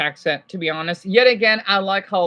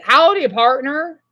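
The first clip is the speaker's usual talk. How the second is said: Southern drawl; 4 semitones higher, 5 dB louder, slower than usual. Retold or imitated. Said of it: "Like how you talk to me".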